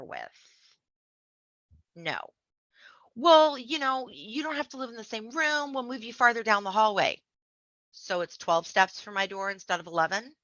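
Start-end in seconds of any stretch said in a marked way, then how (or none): 3.1-7.2 mock placating leader. Mocking community leaders' offer.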